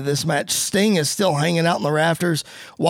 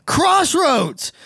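high, shouted move name; big wrestling commentary pop; excited finisher call; 10 semitones higher than usual. Acted. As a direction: shout the finisher like a ringside announcer.

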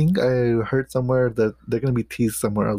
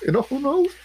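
teasing sing-song. Real, not acted. Teasing friend with a guess.

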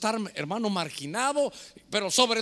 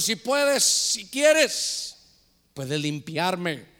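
súplica del leproso; 2 semitones lower, much slower than usual. Acted. Leproso suplica a Jesús.

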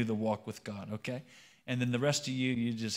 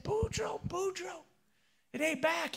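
very high Cajun holler without volume; mock holler; slower than usual. Thibodeau alerting Boudreaux in a joke, mock holler. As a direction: holler thinly in a comic falsetto. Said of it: "Thibodeau hollered".

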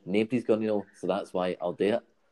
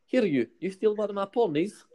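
high, sharp mock accusation; a Lanark man accusing the young lodger, much higher; mock accusing boss; 13 semitones higher than usual. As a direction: play the boss catching him out, much higher. Angry boss confronting about stolen DVD.

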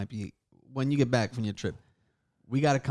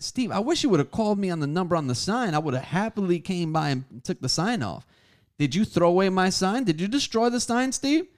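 retold confrontation; 6 semitones higher, 3 dB louder than usual.

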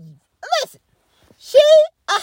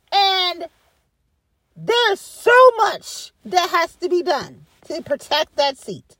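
sincere; 4 semitones lower, slower than usual. Real, not acted. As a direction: weigh each word earnestly. Earnest plea, lowered.

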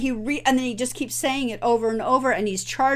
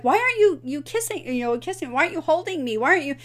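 imitating Buttercup; 7 semitones higher, faster than usual. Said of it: "And she's like".

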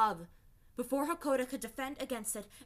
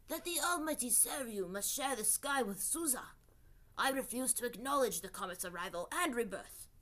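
unearthly voice; 3 semitones higher than usual. Acted. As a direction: speak like a proud ancient serpent god. Seryu the snake spirit speaks.

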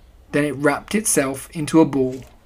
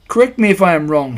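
Owl; 4 semitones higher, 6 dB louder, faster than usual. A narrator's reading. Owl speaking pompously.

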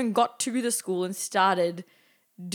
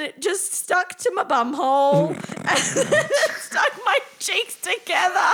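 higher voice, breaking into real laughter; laughing while telling; 7 semitones higher, 3 dB louder than usual. Real, not acted. Friend tells of the waxing mishap, laughing. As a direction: crack up partway through the words.

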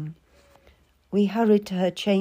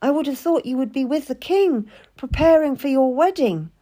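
a touch of irritation, higher; note of anger; 6 semitones higher, 4 dB louder than usual. A narrator's reading. Cat challenges the lady, a touch of anger. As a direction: let resentment creep in. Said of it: "A note of anger had crept into my voice".

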